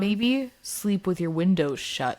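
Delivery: slow, stern, mock-threatening. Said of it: "couldn't tell from the tone".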